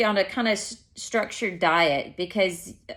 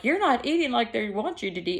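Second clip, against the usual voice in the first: husband scolding; 4 semitones higher than usual. Retold or imitated. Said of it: "Joe was like".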